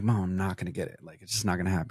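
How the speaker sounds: low, soft, deflated mumble to mom; retold resigned protest. Kid to mom before results, quietly resigned. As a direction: quietly insist it's hopeless. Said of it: "I'm like".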